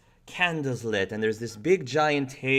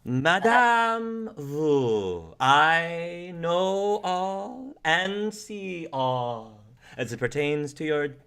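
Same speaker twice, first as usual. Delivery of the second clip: slow, higher, drawn-out seer voice; mystic fortune teller; 5 semitones higher, much slower than usual. Acted. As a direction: intone it like a theatrical psychic.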